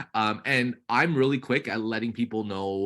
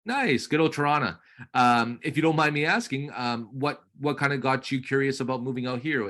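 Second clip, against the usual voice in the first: bright, friendly sales chat; upbeat realtor on call; 2 semitones higher than usual. Acted. Coach playing realtor to trainee's lead, upbeat. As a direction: keep the lead talking warmly.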